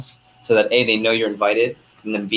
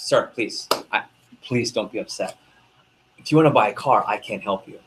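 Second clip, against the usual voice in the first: smug salesman; 2 semitones lower than usual. Retold or imitated. The Porsche salesman soothes the buyer, then smugly welcomes him. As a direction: savor the reveal like a luxury pitch. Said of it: "Salesperson goes".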